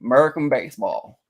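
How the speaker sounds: "American baseball" in a mock-American voice; American accent. Shown as a demonstration. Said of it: "So you say, like".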